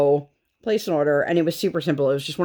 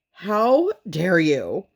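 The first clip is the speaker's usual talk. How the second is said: indignant mom; 2 semitones higher, much slower than usual. Retold or imitated. Mom's indignant inner reaction.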